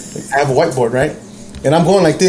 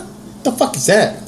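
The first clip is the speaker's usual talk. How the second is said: higher, slower baffled question; puzzled, drawn out; retold confusion; 6 semitones higher, 4 dB quieter, slower than usual. Asking the girl what she gave him, baffled. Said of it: "I was like".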